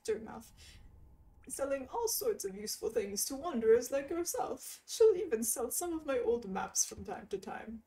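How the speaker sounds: lightly nerdy mapmaker. Acted. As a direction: read as a geeky cartographer. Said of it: "a really nerdy voice".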